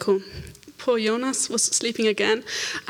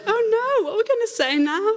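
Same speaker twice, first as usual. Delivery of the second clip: flustered; 12 semitones higher than usual. Retold or imitated. Wrist already healed, flustered and high. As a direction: caught off guard, half laughing.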